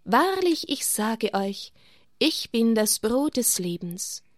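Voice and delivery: clear, solemn words of Jesus; solemn proclamation. Acted. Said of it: "Jesus aber sagte klar und feierlich".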